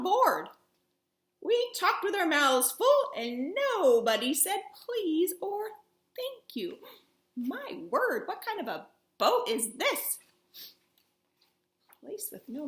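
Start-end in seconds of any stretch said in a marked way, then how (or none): 6.2-6.8 breathy hushed thank-you; whispered thank you. Acted. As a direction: let it slip out as a secret. Polite words nobody says.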